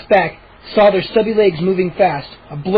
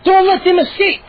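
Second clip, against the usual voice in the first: gnome voice; 11 semitones higher, 3 dB louder than usual. Acted. Gnome voice shouting orders.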